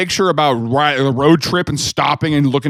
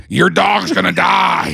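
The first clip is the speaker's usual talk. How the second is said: mock threat; 4 semitones higher, slower than usual. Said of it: "This is me grabbing her head".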